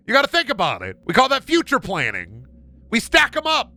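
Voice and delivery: high, brisk conductor voice; zany conductor. Pretend. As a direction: pitch it up like a manic conductor. Conductor explaining horizontal boarding.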